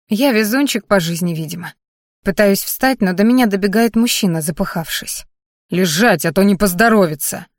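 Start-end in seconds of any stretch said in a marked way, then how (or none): 5.7-7.5 mildly angry threat; a touch of menace. Acted. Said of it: "зло произносит".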